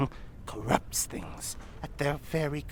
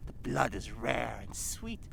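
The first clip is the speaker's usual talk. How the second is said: hushed whisper; 3 semitones lower, 7 dB quieter than usual. Acted. Villain savours memory.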